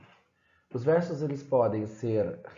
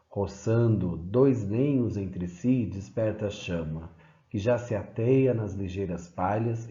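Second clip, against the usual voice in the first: even, measured verse reading; poem recital. Acted. Teacher reading an epic excerpt to the class, measured recital. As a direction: read the epic lines with steady cadence. Reads Basílio da Gama excerpt.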